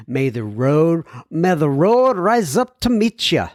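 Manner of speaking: a light put-on Irish lilt on the blessing; Irish accent. Host reading a listener's Irish blessing, in a light Irish accent. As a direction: toss in a playful hint of an Irish accent. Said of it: "throwing that in for a little effect".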